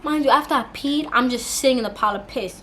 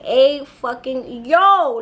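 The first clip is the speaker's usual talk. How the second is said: drawn-out stunned reaction, building louder; retold amazement; 4 dB louder, much slower than usual. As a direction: stretch it out in mock astonishment. Acts out amazement at huge hands.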